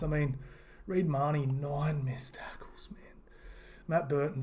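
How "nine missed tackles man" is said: whisper. Real, not acted. Stunned at bad stats.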